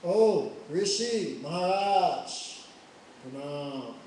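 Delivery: slow, loud, mock-respectful greeting; bow with exaggerated false respect; very sarcastic. Lakshman mocks the angry sage with an overdone greeting. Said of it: "Very sarcastically".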